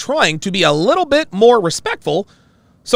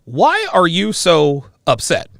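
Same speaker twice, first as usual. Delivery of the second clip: slow quoted question; 3 dB louder, slower than usual. Retold or imitated. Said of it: "she asks me".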